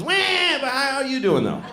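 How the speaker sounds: put-on a baby suddenly asking politely; cartoonish baby voice; mock baby voice.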